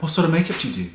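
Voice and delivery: ape his condescension, head tilted; hammed-up snooty stand guy; snooty guy impression. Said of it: "Like that".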